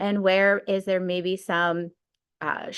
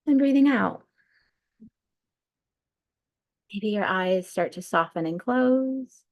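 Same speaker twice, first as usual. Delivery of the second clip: unhurried breathwork guide, long pauses between cues; guided meditation. Real, not acted. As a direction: lead them through the breath, stretching key words.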